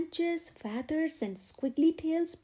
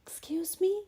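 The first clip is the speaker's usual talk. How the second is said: bright; 5 semitones higher than usual. Acted. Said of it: "she said brightly".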